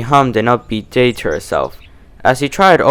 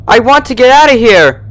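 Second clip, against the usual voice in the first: sobbing plea; 12 semitones higher, 7 dB louder than usual. Acted. Trapped Twilight sobbing at her captor. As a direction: wail it through tears.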